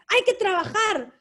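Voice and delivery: lightly voiced nagging mother; imitating mom. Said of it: "she would just be like".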